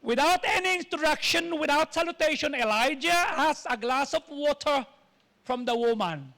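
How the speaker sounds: playful attempt at a British accent. Shown as a demonstration. Preacher retells Elijah asking for water in a British accent. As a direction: put on a practice British accent. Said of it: "Sinasanay ko lang yung British accent".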